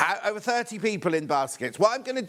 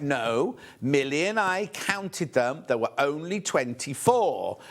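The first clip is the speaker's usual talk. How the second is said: measured, emphatic pushback in a retold squabble; slow insistent correction; 3 semitones lower, slower than usual. Presenter correcting Hayley over the count, slowly insistent. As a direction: spell it out slowly, word by word. Retelling an argument with colleague.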